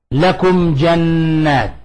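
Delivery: very slow chanted recitation. Shown as a demonstration. Teacher recites the example verse, slow and chanted. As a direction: draw out each word of the verse. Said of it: "مثل قوله تعالى".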